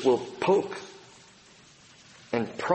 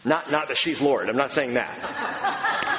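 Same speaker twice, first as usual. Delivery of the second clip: laughing. Real, not acted. Joking aside about wife.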